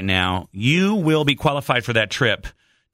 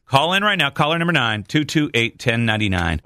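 radio contest promo; 3 semitones higher than usual. Acted. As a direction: pitch the number like a radio host. Host reads call-in number.

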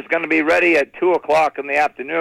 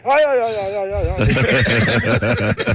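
mumbling uncle; 2 semitones higher than usual. Acted. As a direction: mumble yeahs in a fading, chanting wail. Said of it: "he sounds like a Navajo Indian".

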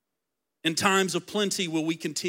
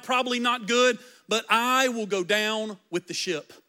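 loyal Ruth; 3 semitones higher than usual. Retold or imitated. Ruth paraphrased, loyal vow.

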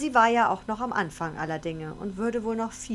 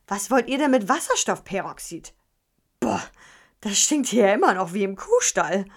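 loud chatty mum; 6 dB louder than usual. Acted. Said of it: "fing sie an zu quatschen".

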